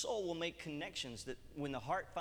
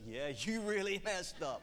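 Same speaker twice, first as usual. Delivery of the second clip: amused, louder with a laugh; laughing reply; 5 semitones higher, 4 dB louder than usual. Retold or imitated. God laughing at the preacher's mistake, amused and louder. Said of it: "God's reply, laughing".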